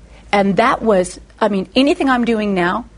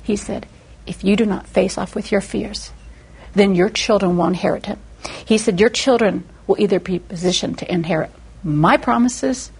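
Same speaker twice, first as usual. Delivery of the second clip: gentle God; 4 semitones lower than usual. Retold or imitated. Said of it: "And God said".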